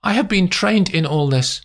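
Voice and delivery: high, composed clinical woman's voice; cool German woman Erica. A narrator's reading. Erica lecturing Nick on the job, cool and clinical. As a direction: speak it calmly, coolly detached.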